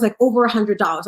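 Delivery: usual speaking voice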